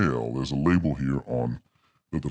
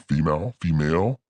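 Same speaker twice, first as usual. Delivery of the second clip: female voice changer; faster than usual. Shown as a demonstration. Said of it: "we have female".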